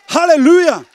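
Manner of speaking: high, loud cry of praise; exultant hallelujah. Real, not acted. Preacher crying out his praise loudly to the congregation. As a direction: shout it out to the crowd in joy.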